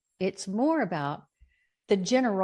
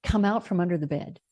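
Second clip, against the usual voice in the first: Bob's voicemail. Retold or imitated. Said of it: "on my voicemail".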